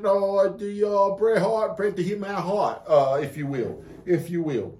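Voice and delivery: sustained put-on British accent. Shown as a demonstration. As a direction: ham up a British gent. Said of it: "in your British accent".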